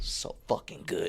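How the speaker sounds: whispered in awe; awed whisper. Real, not acted. To his cohost after the replay, an awed whisper. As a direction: breathe it out in a whisper.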